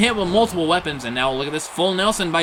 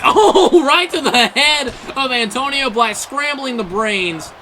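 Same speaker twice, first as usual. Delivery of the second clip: excited laugh; 8 semitones higher, 5 dB louder, slower than usual. Real, not acted. Chair shot, laughing excitement.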